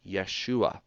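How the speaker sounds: Yeshua as "yeh-SHOO-ah"; correct pronunciation. Shown as a demonstration. Teacher giving the way you pronounce it, Yeshua clearly with "yeh". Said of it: "the way that you pronounce that is".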